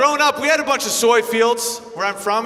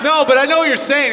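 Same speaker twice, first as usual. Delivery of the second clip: louder, pushing over the crowd; louder retort; 5 semitones higher, 6 dB louder, faster than usual. Real, not acted. Comic talking over the heckler, louder retort. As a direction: cut in loud to win the room.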